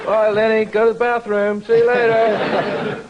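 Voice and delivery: hammed-up Cockney, half laughing; mock Cockney accent. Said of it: "There was my accent".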